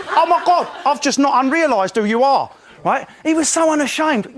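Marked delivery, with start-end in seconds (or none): 0.1-2.5 high, eager Essex gush; mock Mark chat-up. Mark meeting Emily, a high eager gush. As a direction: gush like a starstruck bloke.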